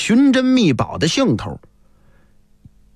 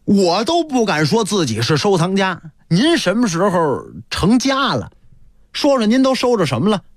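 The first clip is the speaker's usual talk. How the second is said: teasing, joking. Acted. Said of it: "片儿白拿他一开玩笑".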